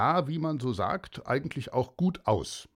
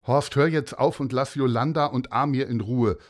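stern teacher; 5 dB louder than usual. Acted. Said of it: "hörte man plötzlich die Lehrerin sagen".

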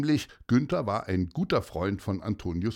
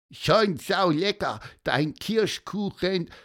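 squeaky cartoon voice; 7 semitones higher than usual. Gonzo the bird speaks.

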